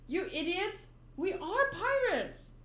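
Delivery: high-pitched acted exclamation; exclaiming. Pirates bickering before the mob, exclaiming. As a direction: cry it out high. Exasperated companion, then defiant pirate.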